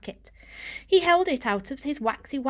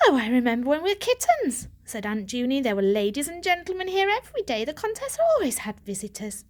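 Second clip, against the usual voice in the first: put-on higher, wistful old aunt; a hint of a fond old aunt; reminiscing aunt; 4 semitones higher than usual. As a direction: remember fondly.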